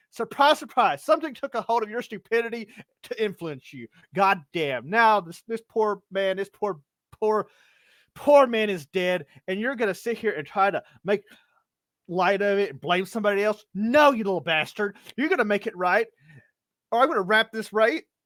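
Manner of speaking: furious ranting. Voicing an enraged cleric scolding a gnome player: furious ranting cleric. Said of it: "he just goes postal".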